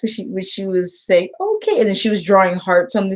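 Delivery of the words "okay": put-on a tiny, much higher "okay" from a child near tears; small tearful okay. A crying student answering her teacher with a small tearful okay. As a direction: voice a little girl holding back tears. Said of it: "I could tell she was crying".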